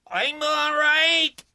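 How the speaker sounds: high, loud, slow yell; reassuring yell. A narrator's reading. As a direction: yell it to calm her down. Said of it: "Briggs yelled to reassure her".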